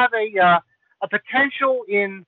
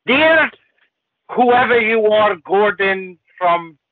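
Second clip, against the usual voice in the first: reading a letter in a put-on Lithuanian Chinese accent; a comic Lithuanian Chinese accent; 3 semitones lower than usual. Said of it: "That was the best Lithuanian Chinese accent".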